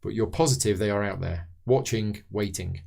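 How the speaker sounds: measured scenario read-aloud; story narration. A narrator's reading. Host reading the scenario intro to fellow players, narrating.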